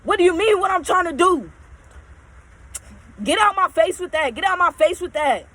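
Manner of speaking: mock shout of an angry coworker; retold yelling. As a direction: throw his angry yell back at the listeners. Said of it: "but he like this".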